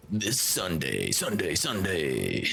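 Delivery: slow booming announcer hype; drawn-out cheesy ad announcer; monster truck ad. Pretend. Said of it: "Reminds me of a cheesy monster truck ad".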